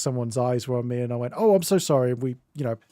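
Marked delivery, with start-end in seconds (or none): 1.4-2.1 polite British apology. Retold or imitated. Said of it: "the British thing".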